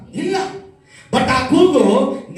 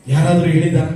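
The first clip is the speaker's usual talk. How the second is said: ಯಾರಾದ್ರೂ punched out loud at the start of ಯಾರಾದ್ರೂ ಹೇಳಿದಾರ?; 4 semitones lower, 6 dB louder, faster than usual. Real, not acted. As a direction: fling ಯಾರಾದ್ರೂ ಹೇಳಿದಾರ? at the crowd, full volume. Preacher repeats question, quiet then loud.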